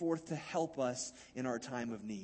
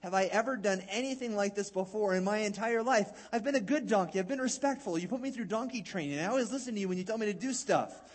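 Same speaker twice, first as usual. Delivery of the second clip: pleading donkey; 4 semitones higher than usual. Acted. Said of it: "The donkey asked and responds".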